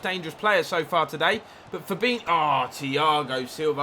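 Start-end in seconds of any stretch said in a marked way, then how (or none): 1.7-3.8 rising excitement cut short as the chance is blocked; excited. Real, not acted. Calling a promising attack that Thiago Silva snuffs out, excited. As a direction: get worked up, then deflate. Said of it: "I was getting excited there".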